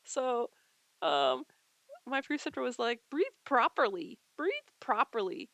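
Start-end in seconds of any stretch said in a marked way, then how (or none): 3.1-5.5 imitated stern repeated command, a bit louder; imitating an impatient instructor; preceptor's scolding order. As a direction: order it insensitively, as her teacher did. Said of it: "she's saying it just like this".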